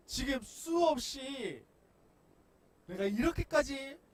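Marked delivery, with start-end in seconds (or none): 2.9-4.0 high, loud slow complaint; loud slow muttered-over complaint; repeated complaint, high. Pretend. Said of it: "되뇌일 수 있을 거예요".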